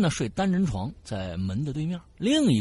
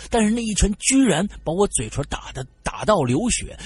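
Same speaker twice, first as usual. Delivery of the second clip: ordinary delivery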